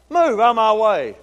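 retold impatient demand. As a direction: order kids out of the way, drawn out. Retelling an impatient demand to kids.

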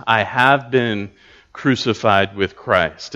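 "have been" slow and weighted, a pause before "crucified"; stress on have been. Shown as a demonstration. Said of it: "notice it happened in the past".

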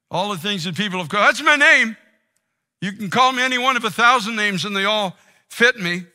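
loud, climbing cries of shame; anguished confession. Acted. Preacher voicing a broken listener naming their shame, loud and raw. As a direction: shout out each name like a wound.

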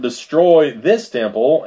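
"this" punched in "Destroy this temple"; stress on this. Shown as a demonstration. Preacher reading Jesus' answer, stress on "this". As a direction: lean hard on the word "this", slowly. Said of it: "Now I put emphasis on this".

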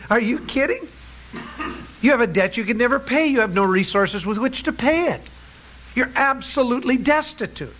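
the king scoffing gently at an impossible promise; amused incredulous king. Acted. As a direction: tease the beggar, a chuckle in the voice. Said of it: "And the Lord chuckles".

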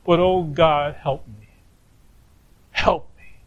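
a broken man's plea dying away to almost nothing; crying out for help. Acted. Job crying out to God in grief, fading pleading whisper. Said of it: "Job is crying out".

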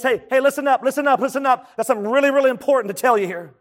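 rally the crowd to listen; calling for attention. Acted. Preacher voices Joshua addressing all the tribes, calling for attention.

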